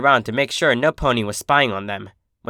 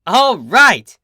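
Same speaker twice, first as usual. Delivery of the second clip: loud, higher joyful cheer; 9 semitones higher, 8 dB louder than usual. A narrator's reading. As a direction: shout with glee. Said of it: "Scootaloo cheered".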